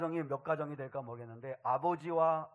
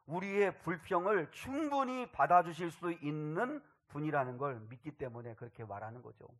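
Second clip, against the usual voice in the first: ordinary delivery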